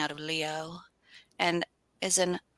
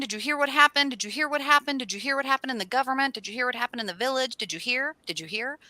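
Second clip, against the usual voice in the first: excited gossip; 4 semitones higher, faster than usual. Retold or imitated. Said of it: "after this crazy weekend".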